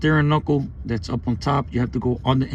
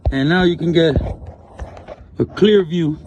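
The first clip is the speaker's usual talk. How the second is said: talking from under the car, projecting up; lying under a car. Real, not acted. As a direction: speak up while lying on your back under a car. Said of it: "Look, I'm under the car".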